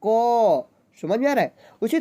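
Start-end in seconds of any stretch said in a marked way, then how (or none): 0.1-0.7 "क" said with a full अ sound after it. Shown as a demonstration. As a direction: open "क" into a clear अ vowel. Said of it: "क्या पढ़ेंगे दोस्तों?". ("क" पूरा, अ के साथ)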